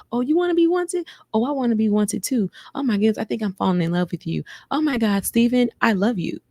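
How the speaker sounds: lightly gushing imitation of lovers; mock lovey-dovey. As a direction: parody a couple falling in love. Mocking the couple's quick declarations.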